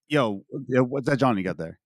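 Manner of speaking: casual, offhand Philly slang; Philly accent. Shown as a demonstration. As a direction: slip "John" in as jawn, Philly style. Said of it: "it's kind of a slip".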